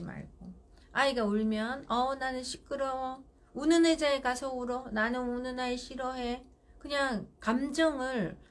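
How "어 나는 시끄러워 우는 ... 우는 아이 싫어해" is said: level, unemotional parent setting a limit; firm, emotionless. Shown as a demonstration. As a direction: state it firmly with no feeling mixed in. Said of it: "단호하게 말을 해야 돼요. 감정을 섞지 말고".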